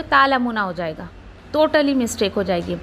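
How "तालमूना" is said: तालमूना said with no ain, plain ta; the mistaken तालमूना; wrong reading. Shown as a demonstration. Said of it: "अगर आप आइन नहीं निकालोगे".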